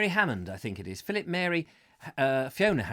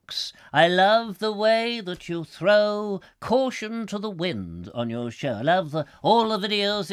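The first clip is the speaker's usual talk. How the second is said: gushing fan letter. Pretend. Host pretending to read a fan's handwritten letter, hammed-up gushing. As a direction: lay on the flattery as if besotted.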